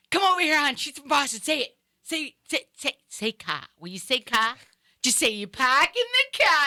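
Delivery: high, excited prodding, repeating SAY; mock someone egging a friend on, pitched well up; pestering fan. Florida local showing off the woman from Boston, high eager pestering.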